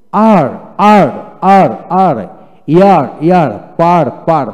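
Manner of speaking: loud, evenly spaced word pairs; loud repetition drill. Shown as a demonstration. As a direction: call out each word twice for pupils to copy. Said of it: "এইভাবে জোরে জোরে দুইবার করে পড়াবেন".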